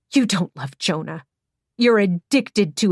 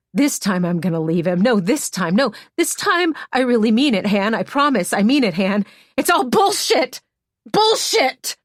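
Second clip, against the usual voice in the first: mocking Emmy; 5 semitones higher, 4 dB louder than usual. The speaker mocking Emmy's promises.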